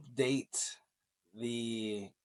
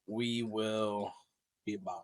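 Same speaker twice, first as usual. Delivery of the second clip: Arnold Schwarzenegger; 2 semitones lower, 3 dB quieter, slower than usual. Acted. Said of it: "Is that my best Arnold impression?".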